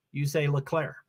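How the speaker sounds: "Leclerc" with the French r, stress at the end. Shown as a demonstration. Streamer teaching viewers Leclerc in French. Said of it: "that's how you say Leclerc in French".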